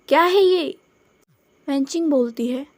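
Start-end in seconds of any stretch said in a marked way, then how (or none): 0.1-0.8 sudden startled outburst, higher and louder; jolted by a kick, blurt it out. Acted. Kicked under the table, he blurts out in startled surprise. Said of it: "शुयांग एकदम से बोलता है".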